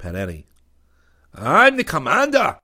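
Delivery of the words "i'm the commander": higher, slow gruff scowl; the alien commander glowers as he speaks. A narrator's reading. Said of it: "scowled the Connie".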